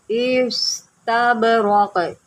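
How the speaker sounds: इस्तबरक with the r and silent q run together; joined raq. Shown as a demonstration. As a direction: blend the ra into the final q of इस्तबरक. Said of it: "रा के साथ मिलाएंगे".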